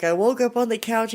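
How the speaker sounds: a wife upset that she isn't believed; upset insisting. Retold or imitated. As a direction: plead to be believed.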